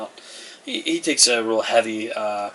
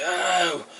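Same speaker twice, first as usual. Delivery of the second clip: startled "oh"; 8 semitones higher than usual. Acted. Shoved peasant cries out.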